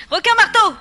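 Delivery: alarmed squeal at the shark; panicked shriek. Acted. Names the shark, then shrieks it.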